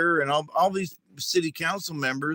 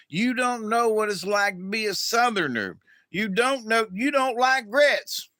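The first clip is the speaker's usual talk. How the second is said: building indignation; 7 semitones higher than usual. Retold or imitated. Southerner scolding Northerners, building.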